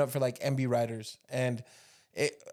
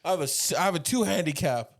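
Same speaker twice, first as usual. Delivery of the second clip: jab it like Biden; mild Biden impression. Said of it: "I got a Biden impression".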